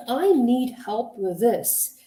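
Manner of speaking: slow, deliberate, concise statement; clear, direct request. Shown as a demonstration. Coach quotes the better way to ask for help, clear and direct. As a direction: say it slowly, without hedging. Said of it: "you are direct and you are concise and you are clear".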